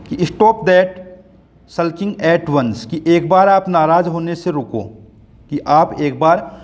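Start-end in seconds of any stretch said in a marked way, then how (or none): 0.3-2.8 slow poem reading. Acted. Teacher reading the poem's nagging mother lines aloud, slow recital. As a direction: read the mother's scolding lines slowly aloud to the class. Rereading the first line.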